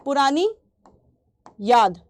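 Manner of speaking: पुरानी and याद spaced apart with a long pause; slow word-by-word meaning. Shown as a demonstration. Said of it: "इसका मतलब होता है पुरानी याद". (पुरानी ... याद अलग अलग रुककर)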